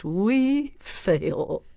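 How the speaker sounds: scornful, dismissive put-down; contemptuous. Shown as a demonstration. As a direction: sneer it down at him. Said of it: "with a contemptuous".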